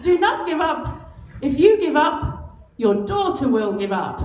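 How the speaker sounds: badly faked French accent slipping towards Italian; mock French accent, urging firmly. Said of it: "That sounds more Italian".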